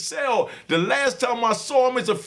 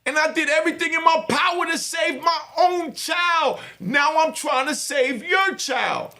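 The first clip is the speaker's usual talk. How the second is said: passionate shout; 4 semitones higher than usual. Real, not acted. Father pleading with viewers to save their kids, passionate shout. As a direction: preach it to the viewers. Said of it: "Yeah, I'm passionate".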